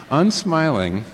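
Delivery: Unsmiling said through a laugh; amused, slow Unsmiling. Real, not acted. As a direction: let the laugh break into Unsmiling. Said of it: "I don't understand. laugh".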